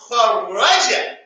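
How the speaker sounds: kharaja drawn out with doubled r; slow corrected form. Shown as a demonstration. Teacher restates the right form slowly. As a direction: stretch kharaja, lean on the r. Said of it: "Not kharaja".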